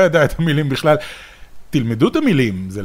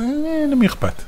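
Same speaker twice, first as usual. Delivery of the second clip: bored, dismissive tone; who cares, said with a shrug; 13 semitones higher than usual. Retold or imitated. Mocking bored viewers' attitude.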